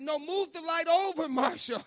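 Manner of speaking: impatient correction. Retold or imitated. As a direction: bark a quick fix-it instruction. Mechanic correcting him.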